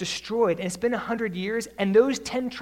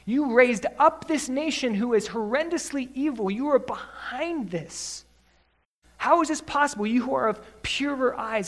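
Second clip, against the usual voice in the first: anguished protest; 4 semitones higher than usual. Acted. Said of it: "He's saying".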